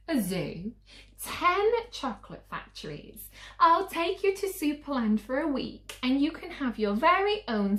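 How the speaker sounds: high, loud, fast list of treats; frantic mum. Acted. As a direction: rattle off every bribe breathlessly. Mum's wildest list yet.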